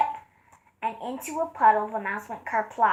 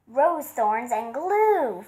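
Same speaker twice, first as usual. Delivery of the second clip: slowed for effect; much slower than usual. Acted. Bees recount their misfortune.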